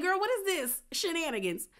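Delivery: high, mock-scandalized disbelief; incredulous. Cast members hearing the scandal, high and incredulous. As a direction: squeal it like gossip too good to be true.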